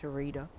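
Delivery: "Sharita" with a D in place of the T; hood-accented "Sharita", T voiced to a D. Shown as a demonstration. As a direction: say "Sharita" as if spelled "Shareeda". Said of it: "with a D".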